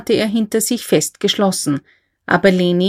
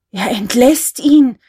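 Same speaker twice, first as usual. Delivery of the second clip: slow, higher-pitched outcry; drawn-out, agitated narrated cry; 4 semitones higher, 4 dB louder, slower than usual. A narrator's reading. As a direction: exclaim it in alarm to the whole room. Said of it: "rief der Kaufmann".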